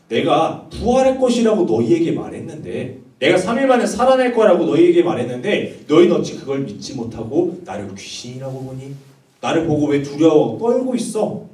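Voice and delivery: emphatic, mildly exasperated questioning; insistent retold rebuke; acted reproach. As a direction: act out a teacher chiding doubting followers. Jesus reproaching his frightened disciples.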